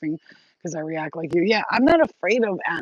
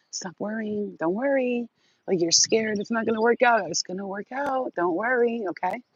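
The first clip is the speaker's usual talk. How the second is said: reassuring voice; 3 semitones higher than usual. Pretend. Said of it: "let my voice guide you and say".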